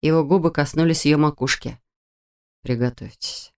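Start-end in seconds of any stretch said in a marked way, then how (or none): 2.6-3.5 soft, hushed whisper. Acted. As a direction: breathe it under your breath. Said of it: "прошептал он".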